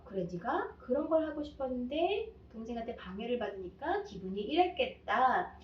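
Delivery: a hint of gentle acceptance; accepting mom. Shown as a demonstration. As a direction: tenderly reflect the child's feelings. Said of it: "완벽하게 여러분이 수용을 해주시는 거예요".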